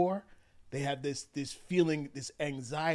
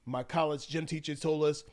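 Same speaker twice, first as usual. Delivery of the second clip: ordinary talk, nothing marked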